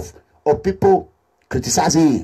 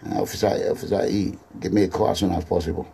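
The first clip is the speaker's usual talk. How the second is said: hushed aside; 12 semitones lower, 7 dB quieter, faster than usual. Real, not acted. Whispered aside to phone caller.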